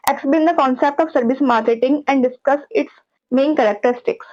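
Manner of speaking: reads the exam question word by word, slowly; measured slow reading of a question. Shown as a demonstration. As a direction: read it out like a question paper.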